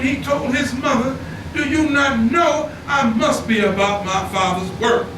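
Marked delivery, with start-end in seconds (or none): 1.5-5.1 preached shout. Retold or imitated. Preacher quoting Jesus to mother.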